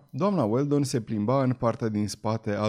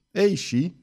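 higher, dismissive retort; scornful exclamation; 6 semitones higher, 3 dB louder than usual. A narrator's reading. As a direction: brush it off with scorn. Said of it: "dând disprețuitor din cap". (replică disprețuitoare, mai sus)

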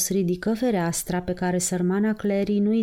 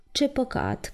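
moved voice; 5 semitones higher than usual. Acted. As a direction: sigh it out, touched. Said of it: "a cărui voce înduioșată". (glas înduioșat, puțin mai încet)

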